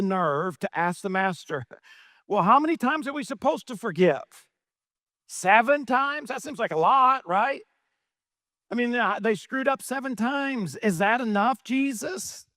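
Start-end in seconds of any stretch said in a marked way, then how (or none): 2.3-12.4 Peter asking. Acted. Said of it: "look at what he asked Jesus".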